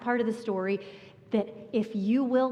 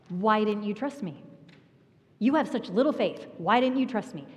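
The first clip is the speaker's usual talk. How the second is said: a stern slap-on-the-wrist rebuke; scolding tone. Retold or imitated. What a hard heart hears from Jesus, scolding. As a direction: snap it like a reprimand. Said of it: "That's what a hard heart hears".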